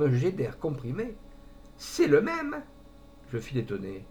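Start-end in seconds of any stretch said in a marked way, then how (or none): 1.8-2.6 high, louder burst through laughter; laughing concierge. Acted. Concierge bursts out laughing at the name, much higher. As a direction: blurt it out mid-laugh. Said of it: "Je vis toutes les dents".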